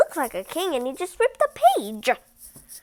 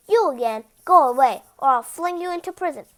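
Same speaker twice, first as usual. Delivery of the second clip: angry king; 6 dB louder, faster than usual. Acted. The king threatens the reader.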